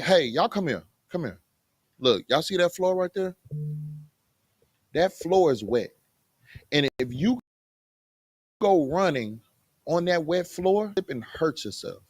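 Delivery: put-on calmly explaining to children; measured fatherly explanation; patient parent. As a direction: gently reason with your kids. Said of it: "I gotta be like".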